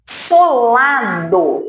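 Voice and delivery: "solado" stretched slowly over three syllables; leva mais tempo. Shown as a demonstration. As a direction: draw "solado" out to show it takes longer. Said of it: "Leva mais tempo". ("solado" bem demorado)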